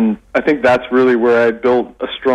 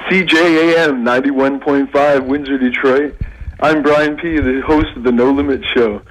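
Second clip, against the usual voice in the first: lightly done radio host intro; 2 semitones higher than usual. Shown as a demonstration. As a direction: announce it like a morning DJ. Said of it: "I still have my, uh, my early morning radio voice".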